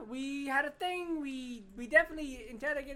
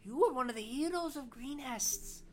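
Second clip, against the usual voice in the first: put-on little old lady voice; slower than usual. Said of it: "this is my little old lady voice".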